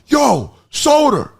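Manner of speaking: put-on old busser hailing from a doorway; mock friendly shout-out; calling out. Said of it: "I just hear".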